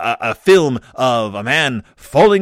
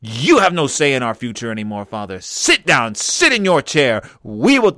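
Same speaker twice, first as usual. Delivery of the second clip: sneering panto villain; 4 dB louder than usual. Pretend. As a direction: lord it over father like a pantomime baddie. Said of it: "Do they say to their father".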